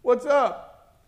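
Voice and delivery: loud, high-pitched indignant protest; testy complaint. Retold or imitated. Preacher objecting that God spoke to mother, loudly testy. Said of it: "I wanted to be a little testy".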